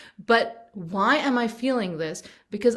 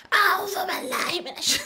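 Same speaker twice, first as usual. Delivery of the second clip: laughing; 10 semitones higher than usual. Retold or imitated. Mother mocks her own yelled prayer.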